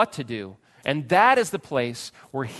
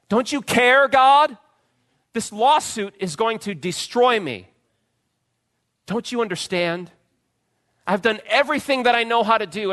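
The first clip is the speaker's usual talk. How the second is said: high loud pleading cry; desperate complaint to God; 8 semitones higher, 6 dB louder than usual. Pretend. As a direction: beg God in anguish, voice raised. Desperate prayer acted out.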